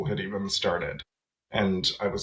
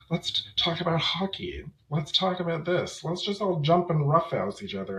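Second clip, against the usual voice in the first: mock macho boys; 8 semitones higher than usual. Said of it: "the males were like".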